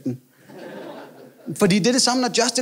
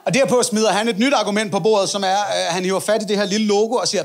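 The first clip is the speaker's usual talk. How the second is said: normal talking voice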